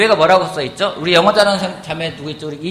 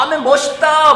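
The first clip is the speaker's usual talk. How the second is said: high, loud cheering; imitated enthusiastic reaction; 10 semitones higher, 5 dB louder than usual. Church members reacting to someone on stage, excited cheer. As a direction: cheer on whoever just came up. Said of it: "막 반응해줘요".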